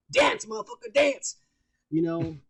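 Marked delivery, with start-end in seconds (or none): 0.1-1.4 high mock tyrant yelling dance; whip-cracking tyrant. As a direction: bark orders at a dancing puppet.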